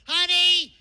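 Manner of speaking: loud high yell, slow on the last words; yelling down six stories. Retold or imitated. Wife yelling down six floors to her husband, loud and drawn out. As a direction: call it up the stairwell at full volume. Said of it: "you had to yell down six stories".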